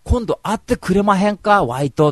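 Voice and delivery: pushy Kansai guy pressing for a date; hammed-up eager Kansai ask; excited Kansai. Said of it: "真治が盛り上がっちゃってさ".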